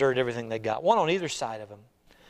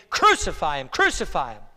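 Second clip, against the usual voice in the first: loud, emphatic repeated demand; forceful cry, falling at each end; crowd crying out; 6 dB louder than usual. Acted. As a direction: chant it like an insistent mob. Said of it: "they cried out the more exceedingly".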